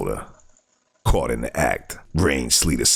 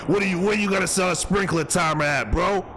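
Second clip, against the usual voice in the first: high voice climbing into a shout; indignant mock rant; 11 semitones higher than usual. Host scolding a sprinkler-timer thief, high indignant rant. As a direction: berate the thief, rising higher and higher.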